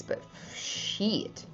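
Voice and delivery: breathed under the breath; hushed aside; whispered curse. Real, not acted. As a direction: mutter the curse to yourself.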